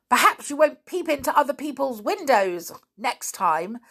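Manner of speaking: high, gloating little voice; smug pixie. Acted. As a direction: tease them with a grin. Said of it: "said the pixie with a grin".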